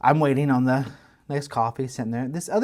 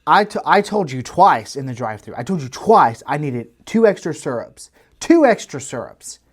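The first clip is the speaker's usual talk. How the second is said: in her face; 5 dB louder than usual. Retold or imitated. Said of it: "she got in her face and told her".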